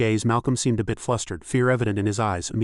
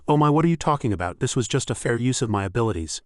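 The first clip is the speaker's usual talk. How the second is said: triumphant retort. Acted. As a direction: toss back the retort, pleased with herself. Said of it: "Sone retorted triumphantly".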